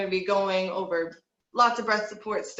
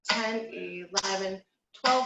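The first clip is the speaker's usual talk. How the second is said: slow count; much slower than usual. Shown as a demonstration. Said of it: "We're gonna breathe in for twelve counts".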